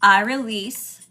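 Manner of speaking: slow, with pauses between phrases; slow declaration. Shown as a demonstration. Host leading viewers in an alignment declaration, slow and deliberate. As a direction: say it slowly enough to be repeated along. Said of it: "I'm gonna say it slow".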